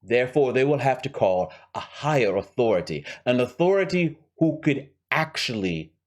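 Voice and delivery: lightly voiced scheming villain with a rough accent; Hans. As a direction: lay out the heist deliberately, in character. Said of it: "Let's go back to Hans".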